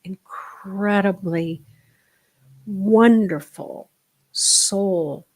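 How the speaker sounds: hushed, breathy affirmation. Real, not acted. Teacher whispering praise to her students. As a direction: whisper it tenderly to them.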